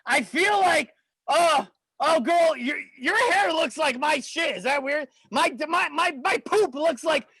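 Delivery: silly tipsy voice. Pretend. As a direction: ham up a tipsy bro. Tipsy silly chatter to girls.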